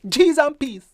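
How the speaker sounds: high shocked cry of "Cheese and peas"; shocked exclaim. Shown as a demonstration. Teacher showing what you say at a shock, shocked. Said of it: "That's how that sound".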